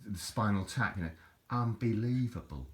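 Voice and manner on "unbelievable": Nigel Tufnel. Retold or imitated. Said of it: "a Nigel Tufnell moment".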